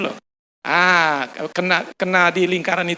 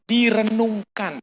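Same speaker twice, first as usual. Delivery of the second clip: direnungkan drawn out slowly, each syllable separate; preacher pressing the word direnungkan on listeners, slow; stressed key word; 2 semitones higher, much slower than usual. Shown as a demonstration. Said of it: "Ada lagi satu kata".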